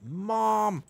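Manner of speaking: playful high-pitched begging; mock plea to mom. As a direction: beg Mom in a high whiny voice. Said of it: "I'm like".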